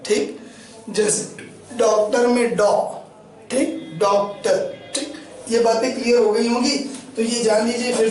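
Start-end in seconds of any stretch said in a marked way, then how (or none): 2.5-2.7 "डॉ" with the open English o; "डॉ" with a rounded, open vowel; open o in doctor. Shown as a demonstration. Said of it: "थोड़ा सा ऐसे बना देगा". 4.0-4.6 "डॉक्टर" with the open English o; "डॉक्टर" as the English loanword, open o first; open o in doctor. Shown as a demonstration. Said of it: "थोड़ा सा ऐसे बना देगा".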